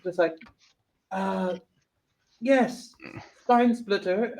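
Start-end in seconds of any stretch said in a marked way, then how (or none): 1.1-4.4 higher Southern mom with little twang; lightly voiced Southern mother. Mom greets Spine Splitter, lightly Southern mom voice. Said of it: "You need a little more twang".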